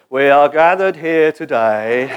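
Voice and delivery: lightly voiced liturgical drone, slow; a hint of a reciting congregation; imitating Anglican liturgy. Pastor mocking a congregation's flat liturgy. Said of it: "you sound like an Anglican congregation".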